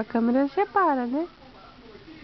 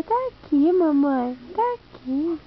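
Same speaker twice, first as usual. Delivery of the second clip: voicing the baby; 2 semitones higher than usual.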